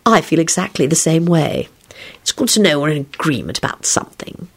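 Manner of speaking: mild, unruffled agreement; pleasant. A narrator's reading. Lupin agreeing with his hostile cellmate, pleasant. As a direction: stay easy and agreeable. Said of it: "Lupin replied pleasantly".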